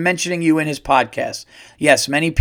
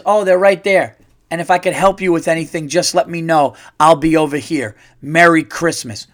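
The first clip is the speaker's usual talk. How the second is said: polite worker; 4 dB louder than usual. Shown as a demonstration. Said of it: "How about this?".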